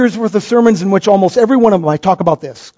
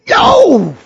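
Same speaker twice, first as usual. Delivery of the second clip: emphatic no; 9 semitones higher than usual. Real, not acted. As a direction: reject the idea with a burst. Preacher rejecting the idea emphatically.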